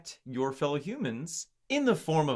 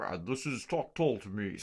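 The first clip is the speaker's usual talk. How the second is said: 1950s announcer voice; 4 semitones lower, 4 dB quieter than usual. Pretend. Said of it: "it wasn't a vampire voice... like a nineteen fifties".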